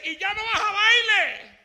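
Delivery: mocking old friend. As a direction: scoff at the new believer. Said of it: "se reía de mí".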